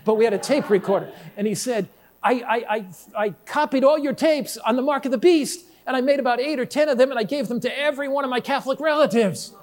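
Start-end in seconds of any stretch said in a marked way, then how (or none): 2.2-9.5 higher, fast, tumbling eager confession; eager young convert. Retold or imitated. Convert confessing to his pastor, higher and rushed. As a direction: rush it out like an excited new believer.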